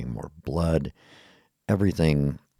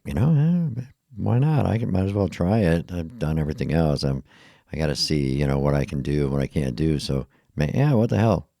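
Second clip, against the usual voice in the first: eager agreement; 2 semitones higher than usual. Retold or imitated. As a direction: toss it off like an eager yes. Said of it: "I was like".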